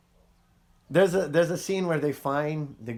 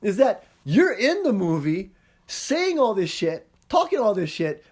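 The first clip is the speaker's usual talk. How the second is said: higher, louder, gleeful mock rant; excited mock rant; 8 semitones higher, 5 dB louder than usual. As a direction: ham up the big reveal to the boys. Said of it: "and he's like".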